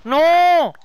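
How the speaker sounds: high loud gasp of shock; shocked cry. Real, not acted. Shocked at pig.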